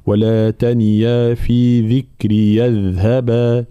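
slow, measured recitation with tajweed; Quran recitation. Shown as a demonstration. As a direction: recite it slowly and evenly. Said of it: "هكذا حال الوصل". (تلاوة مرتلة بطيئة)

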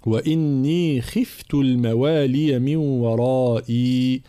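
slow chanted recitation; slow melodic Quranic chant. Shown as a demonstration. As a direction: recite slowly in tajwid style. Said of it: "انتباه أولًا إلى تحقيق حركة".

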